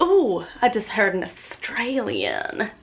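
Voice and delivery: slow mock Australian twang; broad Australian accent. Traveller overseas spotting an Australian, slow mocking Australian accent. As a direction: drag out the Australian vowels. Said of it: "you're like, / sounds so bad".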